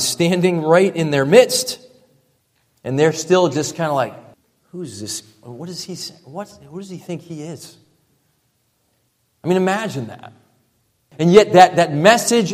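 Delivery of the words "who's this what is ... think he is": mock dismissive crowd.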